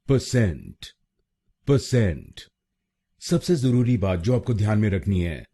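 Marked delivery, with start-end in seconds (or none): 0.1-2.4 परसेंट as pə-SENT, drilled several times; correct pronunciation repeated. Shown as a demonstration. Teacher drilling students on correct परसेंट. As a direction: repeat परसेंट with a weak first syllable, pə-sent. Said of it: "तो बनेगा".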